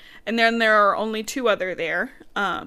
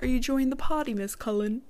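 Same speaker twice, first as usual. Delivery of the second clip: imagined Edward; 4 semitones higher than usual. Acted. Groom asking his bride to dance, lightly put-on voice. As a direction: put a hint of a courtly groom on it. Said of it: "That's how he talks in my brain".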